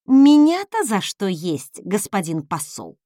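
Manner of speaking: vengeful. Acted. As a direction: get your revenge with sarcasm. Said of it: "мстительно спросила я".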